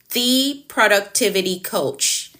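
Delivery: slow, with "The" drawn out as "thee"; stress on THE. Shown as a demonstration. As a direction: spell out the name, leaning on "The". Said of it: "make an emphasis on the".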